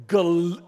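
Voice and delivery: first syllable Gal- said loud and stretched; three-syllable glory. Retold or imitated. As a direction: sound out Gal- as its own beat. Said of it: "like three syllables".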